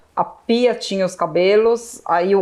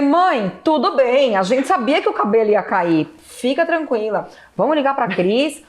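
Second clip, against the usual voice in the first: soothing a frightened mother, higher; calm her down gently; reassuring; 4 semitones higher than usual. Retold or imitated. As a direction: daughter comforting mother, reassuring. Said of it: "eu falei".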